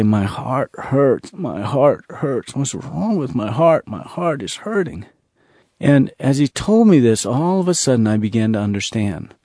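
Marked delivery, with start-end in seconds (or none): 0.0-5.1 soft, slow, pained voice of a grieving villager; aching heart. Retold or imitated. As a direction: let the hurt soften and slow each repeat, fading out. Villagers' grief retold again.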